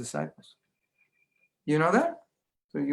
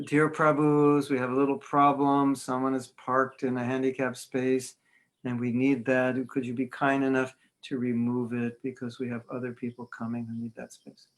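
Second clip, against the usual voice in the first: polite British announcement. Retold or imitated. English temple announcing a parking problem, lightly voiced polite request. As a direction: ask ever so kindly over the speaker. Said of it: "they're making the announcements".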